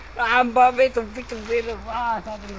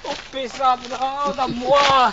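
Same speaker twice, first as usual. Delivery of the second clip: loud, higher panicked cry for help; yelling for help; 6 semitones higher, 4 dB louder, slower than usual. Real, not acted. Gamer yelling to his friend for help, loud and panicked. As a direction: shout to your friend to help you, stretched out slowly.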